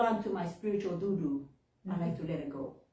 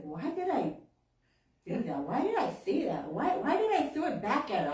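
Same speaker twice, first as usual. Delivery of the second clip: retold guilt; 3 semitones higher than usual. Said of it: "to feel guilty".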